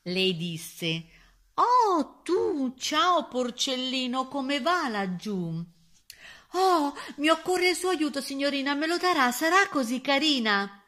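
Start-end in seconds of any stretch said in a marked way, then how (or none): 1.5-5.7 high, drawn-out delighted greeting; gushing girl. A narrator's reading. Little Red Riding Hood greets the piglet, gushing. 6.5-10.8 high, loud imploring voice; pleading piglet. A narrator's reading. Piglet begs the young lady for help, pleading.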